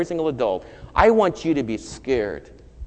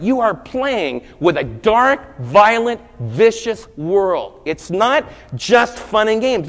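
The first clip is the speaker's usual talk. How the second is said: louder and higher, slowing on the dark words; fiery preaching; 7 semitones higher, 7 dB louder than usual. Acted. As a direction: drag out dark and vicious like a warning. Preacher warns of dark world.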